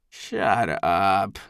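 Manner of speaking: long, falling growled retort; snarl. A narrator's reading. Drunk Eldest silencing his accuser, snarling. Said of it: "Eldest snarls".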